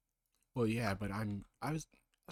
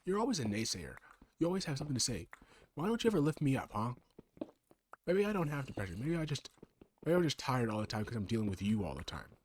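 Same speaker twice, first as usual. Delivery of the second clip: higher, louder aggrieved whine; whiny complaint; 4 semitones higher, 3 dB louder than usual. Acted. Other self venting about never being lifted up, aggrieved. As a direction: complain like you're fed up and hurt.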